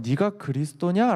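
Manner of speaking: slow, scornful question; contemptuous question. Retold or imitated. High priest scorning Jesus, slow contemptuous question. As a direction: say it with disdain. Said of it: "되게 경멸하는 듯이 얘기하는 거예요".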